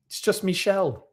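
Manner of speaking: a hint of a cartoon turtle; joking turtle. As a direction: toss it off as a high-pitched turtle quip. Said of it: "said the turtle".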